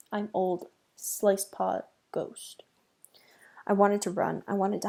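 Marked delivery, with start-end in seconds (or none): 0.1-2.6 slow spooky whisper; whispered ghost boast. Acted. Ghost cat closing its rhyme, slow spooky whisper. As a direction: hiss the name like a ghost. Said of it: "in a scary voice".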